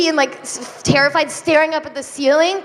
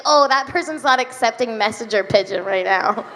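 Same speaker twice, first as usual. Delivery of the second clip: lower, laughing pigeon voice; 5 semitones lower than usual. Pretend. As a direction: pigeon politely turning her away. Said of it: "and he's like".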